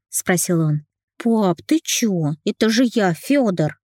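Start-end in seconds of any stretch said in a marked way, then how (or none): 1.2-3.8 put-on slow, higher child's voice with a laugh; laughing little boy. A narrator's reading. Little son laughing at his dad, high child voice. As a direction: play a giggling small son. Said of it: "засмеялся малец".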